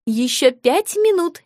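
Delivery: slow, calm and unbothered; unflappable calm. Acted. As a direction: settle it coolly, no fuss. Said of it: "невозмутимо сказала мама". (невозмутимо)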